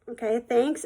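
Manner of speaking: mildly unsure, questioning lift at the end; retold awkward, polite thanks; hesitant thanks. Girl answering a stranger's compliment, hesitant. Taken aback by backhanded compliment.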